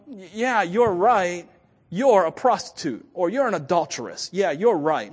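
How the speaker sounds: harsh judgemental yes; blunt condemning confirmation. Pretend. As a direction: flatly agree she's a sinner, no kindness. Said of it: "I love how he didn't, you know".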